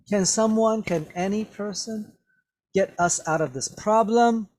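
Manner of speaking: high-pitched, insistent plea; demanding. Acted. Teacher rephrasing Sharon's question for students, insistently demanding. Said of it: "demanded Sharon".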